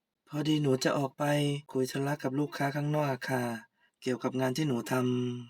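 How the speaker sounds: soft and slow, careful not to provoke; timid daughter-in-law, hushed and unhurried; meek polite reply. Acted. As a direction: quietly explain to the mother-in-law why she must go out.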